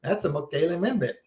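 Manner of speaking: lightly put-on African accent, Mokele Membe rolled out; mock African accent, mild and playful; a hint of an African tribesman's accent; faked African accent. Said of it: "You have your accent".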